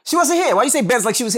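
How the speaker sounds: high, incredulous objection; indignant husband protesting. Real, not acted. Arguing couple, high pitch.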